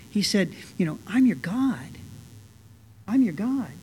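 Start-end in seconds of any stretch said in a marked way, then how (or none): 1.1-3.7 gently voiced, tender reassurance; utmost tenderness. Preacher voices God claiming his people, with tenderness. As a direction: say it tenderly, leaving room after each phrase. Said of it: "the utmost tenderness".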